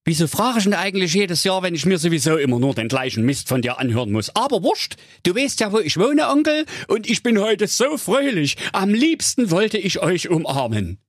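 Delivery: high character voice, exasperated then jolly; quick grumble turning into high, merry chatter; cheerful nephew, first fed up. A narrator's reading.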